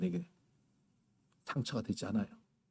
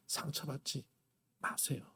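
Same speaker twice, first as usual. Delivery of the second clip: soft plea; 4 semitones lower, 14 dB quieter than usual. Real, not acted. Gentle closing exhortation.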